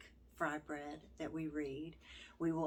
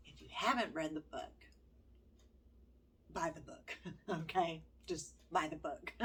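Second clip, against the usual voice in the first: laughing through tears. Real, not acted. Laughs through tearful recommendation.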